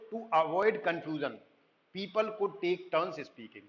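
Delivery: slow, careful reading of an English definition; slow slide reading. Acted. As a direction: read it out word by word like a textbook. Rereads slide line slowly. (धीमी, सधी आवाज़ में पाठ पढ़ना)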